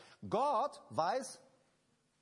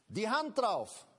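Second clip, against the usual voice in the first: louder, firm declaration of God's oath; "Die Hand drauf" with a strong fall on "Hand"; emphatic pledge; 3 semitones higher, 5 dB louder, slower than usual. Acted. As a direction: proclaim it like an oath. God's promise proclaimed.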